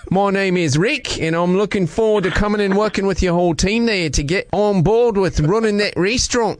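put-on Australian accent. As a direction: fake Aussie prank caller. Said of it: "using my Australian accent".

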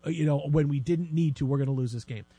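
low, soft, dejected groan of a doomed fan; mock despair. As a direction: moan it like the game is already lost. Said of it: "I'm like".

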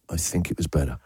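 low, softened confession; hushed, confidential aside; mock whisper. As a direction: drop it low like a guilty secret. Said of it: "I'm gonna whisper it".

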